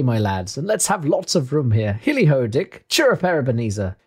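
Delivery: jovial, hearty orders to apprentices; rally the lads with cheerful calls; Fezziwig. Acted. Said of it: "cried old Fezziwig".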